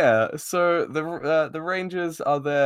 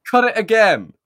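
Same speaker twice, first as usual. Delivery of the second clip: a hammed-up witch's command, much higher and louder; mock villain yell; 10 semitones higher, 10 dB louder than usual. Host quoting Rita ordering the rope cut, mock yell. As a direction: bark the order like a cartoon witch queen.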